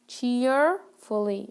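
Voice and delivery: Cheerfully drawn out slowly, syllable by syllable; slow careful model word. Shown as a demonstration. Teacher slowly models Cheerfully for her students. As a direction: say Cheerfully slowly so the class can copy. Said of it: "It has more than one syllable".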